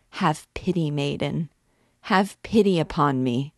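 tormented priest pleading, voice rising in passion; anguished priest. Acted. Priest begging the gypsy girl, anguished pleading. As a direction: beg her like a man on the rack.

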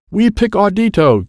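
high, called-out announcement; yelling. A narrator's reading. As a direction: call your pick across the field. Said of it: "Dad yelled".

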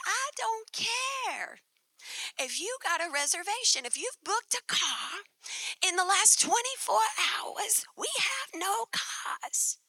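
a fed-up New York clerk laying down the law; New York clerk repeating the refusal; New York accent. Retold or imitated. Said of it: "in their New York accent".

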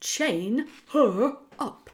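very slow, drawn-out command; deliberate menacing rat voice; slow insistent order. A narrator's reading. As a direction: drag out each word, insisting.

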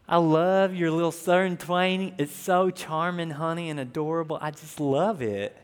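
lightly hammed-up doting husband; mock-adoring sweet talk; hopeless romantic. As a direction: gush mildly over your sweetheart. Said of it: "pretend for a minute that I'm just Mister Hopeless Romantic".

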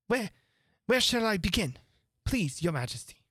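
high, halting, deferential question; falter, then ask the king humbly; White Rabbit, nervous. A narrator's reading. White Rabbit asks where to begin reading, nervously.

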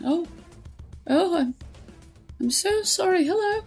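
put-on frail old woman. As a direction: play feeble and harmless. Frail old woman act at door.

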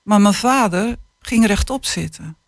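put-on calm, measured reading of a children's book; unhurried storytelling voice; story reading. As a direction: read it like an author sharing a tender chapter. Author reads passage aloud.

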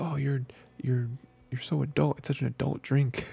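a playful hint of mock admiration; teasing mock awe. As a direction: tease him like a grown-up. Quoting teasing about coffee.

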